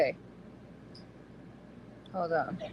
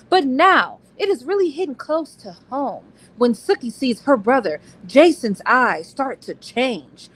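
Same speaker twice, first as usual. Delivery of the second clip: dramatic reading; 3 semitones higher than usual. Acted. Reading the book blurb to her co-host, dramatic trailer voice. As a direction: sell it like a thriller trailer.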